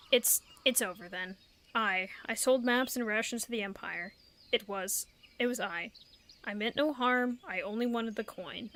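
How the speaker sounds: a touch of a guilty traitor owning up; lightly voiced confessing traitor. Traitor admitting his crime to the adventurer, lightly voiced. Reading the NPC's confession aloud.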